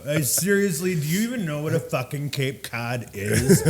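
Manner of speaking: lightly mocked drunk, stretching words; drunk customer. Drunk customer quizzing the bartender about a cocktail, mock indignation. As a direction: imitate an indignant drunk through amusement. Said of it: "the super intoxicated".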